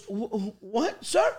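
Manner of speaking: stammered, rising to a high pitch; mock alarmed kid. Store kid to baffling customer, mock alarmed stammer. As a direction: stumble into a bewildered, frightened question. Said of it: "He looked like he was being abducted".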